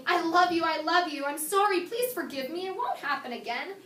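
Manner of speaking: lightly acted pleading, rushing from phrase to phrase; imitating an apologetic man begging; pleading apology. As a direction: mildly beg to be forgiven. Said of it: "the men come crawling back".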